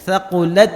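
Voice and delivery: thaqulat with a puff of air released on the final t; Arabic letter ta. Shown as a demonstration. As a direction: let the t of thaqulat burst out with breath. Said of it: "makhraj kita lengket".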